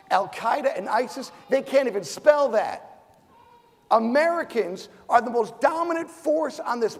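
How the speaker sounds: sudden defiant shout; fired-up jab at the enemy. Real, not acted. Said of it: "I get fired up".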